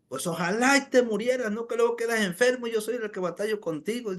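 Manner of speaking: exasperated scolding, acted out; retold angry yelling. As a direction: imitate a fed-up wife railing at her husband. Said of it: "la señora gritándole".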